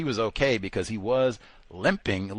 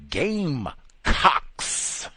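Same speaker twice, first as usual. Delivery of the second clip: mocking drawl; 5 semitones higher, much slower than usual. Mocking team name.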